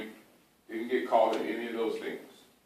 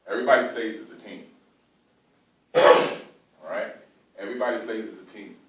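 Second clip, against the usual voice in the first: louder coach's rallying call; 8 dB louder than usual. Real, not acted. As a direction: fire up the team.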